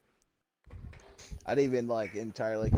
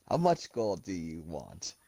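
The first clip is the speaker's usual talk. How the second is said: slow, drawn-out genie offer; genie act; 3 semitones lower, slower than usual. Acted. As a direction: play a wish-granting genie, taking your time. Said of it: "act like a genie".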